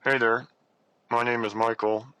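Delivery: speaking through a jaw wired shut. Real, not acted. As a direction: talk with teeth clamped, jaw wired shut. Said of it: "I have my jaw wired shut".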